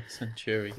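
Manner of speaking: put-on Centauri said like a six year old would; "Centauri" with a childish sound. Shown as a demonstration. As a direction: sound out "Centauri" like a little kid. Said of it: "That's what you say when you're six".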